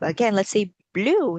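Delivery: blue with a full L and long oo; clear blue. Shown as a demonstration. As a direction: say "blue" as bl-oo, not boo. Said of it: "not boo".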